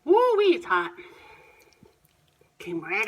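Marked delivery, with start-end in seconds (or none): 0.1-0.9 hot food in mouth. Real, not acted. Hot bite just taken.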